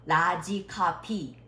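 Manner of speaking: "large copy" said as "la-ji ka-pi"; Korean-style mispronunciation. Shown as a demonstration. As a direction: drop the r in "large", hard p in "copy". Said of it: "Nobody understand that". ("large copy"를 "라지 카피"처럼 한국식 발음으로)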